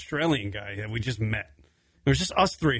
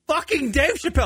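high, laughing repeat of the name; 12 semitones higher, 3 dB louder than usual. Real, not acted. Telling the story to his co-host, laughing. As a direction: laugh it out in disbelief.

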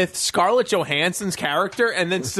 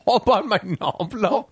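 put-on English accent. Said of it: "try to do an English accent".

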